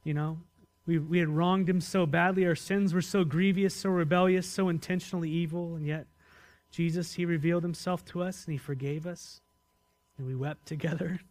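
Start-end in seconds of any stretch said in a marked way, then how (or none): 0.8-5.8 fervent confession. Acted. Preacher voicing confession with force.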